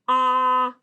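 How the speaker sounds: "ah" held loud, the short O of dog; short O sound. Shown as a demonstration. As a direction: isolate "ah" as a sustained short-O vowel. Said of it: "Vowel sound".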